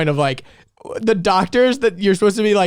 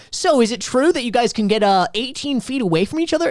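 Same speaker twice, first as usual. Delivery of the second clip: mock interviewer; 6 semitones higher than usual. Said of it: "She's like".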